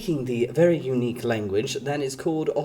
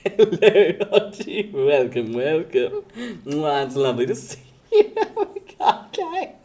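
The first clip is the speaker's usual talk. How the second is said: cheerful greeting; 2 semitones higher than usual. Pretend. Greeting an imagined auntie.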